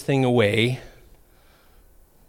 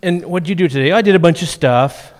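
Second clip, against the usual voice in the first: imitating kids; 3 semitones higher, 4 dB louder than usual. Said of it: "kids will say things like".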